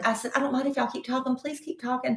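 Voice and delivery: a hint of a polite Southern lady asking nicely; wife showing how she'd ask the checker, mild Southern accent; thick Southern accent. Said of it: "with a very thick Southern accent".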